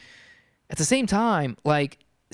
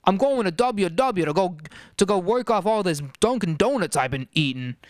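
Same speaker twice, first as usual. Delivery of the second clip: put-on Boston accent. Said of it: "everyone in Boston talks like this".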